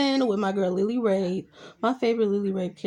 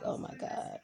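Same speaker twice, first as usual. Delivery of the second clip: shocked whisper; 12 dB quieter than usual. Retold or imitated. Stunned reaction to prison escape plot.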